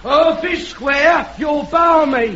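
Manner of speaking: slow shouted heckle; heckling shout. Acted. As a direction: bawl it from the crowd.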